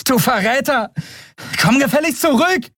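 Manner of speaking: high furious scolding shout; angry yell. Acted. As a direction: scold the traitor as he runs. Endriel yells at fleeing Kero.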